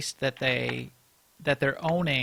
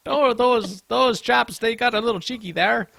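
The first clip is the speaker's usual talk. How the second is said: higher, louder hammed-up mishmash of British accents; jokey British accent; 8 semitones higher, 7 dB louder than usual. Teasing the devs as cheeky chaps in a hammed-up British accent. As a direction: play a cheeky Brit with a Scottish and London mix. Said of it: "I don't know what kind of accent that was".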